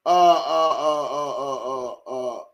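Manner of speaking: stuttering uh's fading into a fake sob; mock sobbing stammer. Host's pretend kid choking up mid-sentence, mock sob. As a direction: let the kid choke up and trail off.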